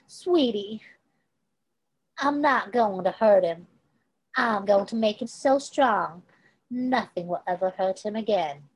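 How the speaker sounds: lightly voiced Kate, taunting with pet names; villainess cooing. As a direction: coo like a cruel woman patronising a boy. Kate voiced reassuring sweetly.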